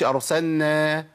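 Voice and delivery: أرسلنا as أرسنّا, لام into نون, slowly; merged lam. Shown as a demonstration. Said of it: "ما أقولش".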